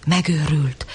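usual speaking voice

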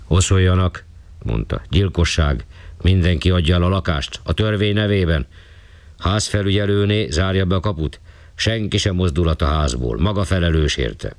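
a hint of the commanding policeman; stern policeman. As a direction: clear the hall with authority. Policeman giving orders.

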